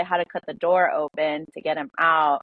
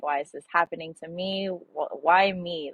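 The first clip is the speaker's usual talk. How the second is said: crying to mom; 3 dB quieter than usual. Retold or imitated. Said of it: "I would cry to her".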